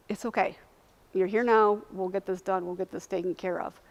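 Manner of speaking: calm reassurance. Retold or imitated. Doctor to confused crying patient, calm and reassuring. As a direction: imitate settling someone who is distraught.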